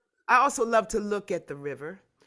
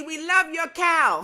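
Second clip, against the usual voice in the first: laughing shout; 7 semitones higher, 6 dB louder, slower than usual. Real, not acted. Shouting greetings to participants.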